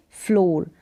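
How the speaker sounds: फ्लोर with a long o vowel; repeated model pronunciation. Shown as a demonstration. Teacher repeating the answer for pupils, फ्लोर pronounced with long o. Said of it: "क्या पढ़ेंगे".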